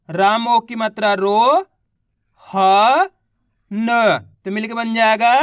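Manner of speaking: slow letter-by-letter chant, रो and ह held long; spelling out. Shown as a demonstration. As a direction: sound out रो, ह, न separately with pauses. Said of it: "चलिए देखिए एक बार फिर से". (रो, ह, न अलग-अलग, धीरे खींचकर)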